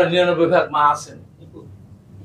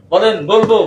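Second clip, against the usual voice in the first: rally call; 4 semitones higher, 5 dB louder than usual. Acted. Leads crowd call and response.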